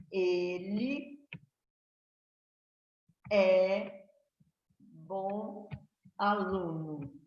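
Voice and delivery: very slow, each word drawn out between long pauses; child reading aloud. Retold or imitated. Teacher imitating a child reading the sentence, haltingly, word by word. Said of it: "uma criança, quando ele lê essa frase".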